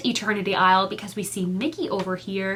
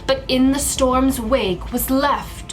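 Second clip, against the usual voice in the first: super dramatic voice. Acted. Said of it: "like, a super dramatic voice".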